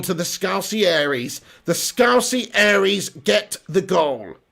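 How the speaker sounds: measured, drawn-out play-by-play; live goal commentary. Real, not acted. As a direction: narrate the move deliberately, landing each phrase.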